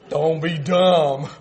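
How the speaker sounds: put-on slow, drawn-out child's rebuke of Dad; mock scolding. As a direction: stretch it out, amused, as an imitated scolding. Son scolds his dad in story.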